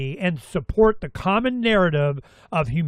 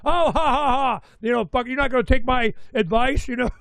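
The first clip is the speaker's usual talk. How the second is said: lightly voiced chatbot, higher, with a put-on laugh; mock AI voice; 4 semitones higher than usual. Chatbot teasing the user who ignores its advice, mock laughing voice. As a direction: play the chatbot teasing him, a touch higher. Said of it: "the A I thought I was talking to it".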